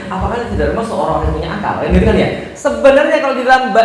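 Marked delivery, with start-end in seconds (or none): 0.1-1.7 mild, courteous Javanese-style question; gentle, quick halus reading; refined, polite reading. Shown as a demonstration. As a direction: ask it politely, softening the rebuke. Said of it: "halus banget kan ya?".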